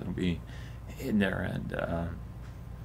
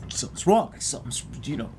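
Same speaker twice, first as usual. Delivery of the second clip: imitating a worried colleague, higher-pitched; mock alarm; 6 semitones higher than usual. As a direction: act out mildly panicked suspicion. Retelling a worried colleague running up.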